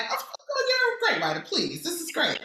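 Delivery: imitating a breezy friend, pitched high; high-pitched, offhand reassurance; nonchalant friend. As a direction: wave off the doubt in a high, casual voice. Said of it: "But Imani's so nonchalant, like".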